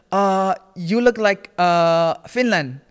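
slow, loud guess, drawn out between fillers; imitated hesitant guesser. Random girl guessing the speaker's country, mock-hesitant.

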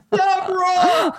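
loud, drawn-out voice of God; Charlton Heston. Retold or imitated. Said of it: "Charlton Heston and the Ten Commandments".

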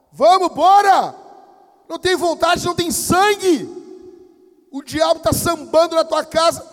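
loud, building to high full-force yell; shouting. Acted. Pastor rousing tormented brother to rebuke devil, building shout. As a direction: shout him into fighting back, ever harder. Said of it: "grita, grita bem alto".

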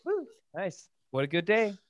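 high, bright-voiced little cheer of delight; gleeful cheer. Betty White cheering a royalty check, giddy and high. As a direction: squeal it like a rich old star counting money.

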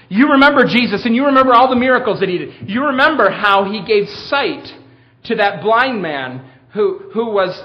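loud, high, urgent reminder; Peter preaching. Acted. Peter reminding the crowd of Jesus's miracles, insistent preaching. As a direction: build a pressing case to the crowd. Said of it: "What could he have said?".

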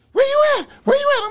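very high, loud mock panic; panicking caller. Defender calls client about missed court, panicking. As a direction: frantically imitate a panicked phone caller. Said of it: "Bitch just called me panicking".

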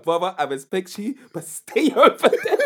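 laughing mock preacher, pitch rising on "over there"; mock Doctor Umar. Friend retells a viral video, laughing mock Umar impression. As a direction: impersonate the doctor, cracking up at the end. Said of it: "That video of him saying".

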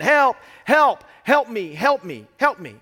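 loud, high acted cries, easing off as they repeat; crying out. Blind beggar begging for help on the road, acted cries. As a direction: imitate a beggar calling for attention. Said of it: "he's crying out".

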